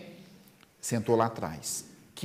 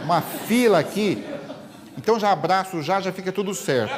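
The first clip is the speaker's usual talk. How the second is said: laughing anxious man; 4 semitones higher, 3 dB louder than usual. Acted. Anxious man explaining the early hug.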